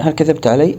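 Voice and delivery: ordinary delivery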